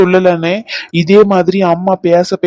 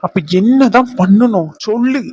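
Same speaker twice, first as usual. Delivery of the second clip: sharp angry demand, pitch up; frustrated lover demanding an answer; 3 semitones higher than usual. Acted. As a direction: snap the question out in anger. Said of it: "ஏன் இப்படி கோவமா பேசுறீங்க?".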